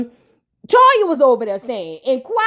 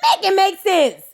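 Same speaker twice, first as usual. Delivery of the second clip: imitating Toya, higher and fast; 5 semitones higher than usual. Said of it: "And Toya was like".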